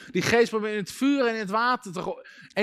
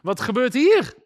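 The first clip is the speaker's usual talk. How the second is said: mildly panicked, slightly raised pitch; imitating disciples starting to panic; mock panic; 3 semitones higher, 4 dB louder than usual. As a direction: act out a touch of bewildered panic. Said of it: "een soort paniek van".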